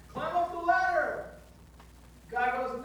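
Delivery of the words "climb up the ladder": loud, high call down; helicopter shout. Acted. Helicopter man shouts down to the man on the roof, loud. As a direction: call over the rotor noise. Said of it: "the guy goes down".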